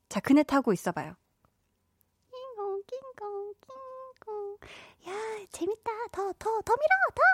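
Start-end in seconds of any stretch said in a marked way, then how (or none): 2.6-7.2 put-on high, breathy little-kid voice; child on a swing. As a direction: squeal like a kid being pushed on a swing. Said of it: "상황극을 생각을 해봐야겠네".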